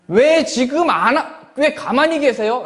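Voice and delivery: a mock whiny complaint to God; complaining prayer. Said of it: "라고 하는 우리의 기도".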